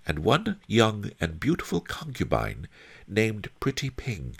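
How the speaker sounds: Fat Fu listing possessions. A narrator's reading. Fat Fu lists the miser's possessions, high measured recital. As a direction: count off each item in a high, measured voice.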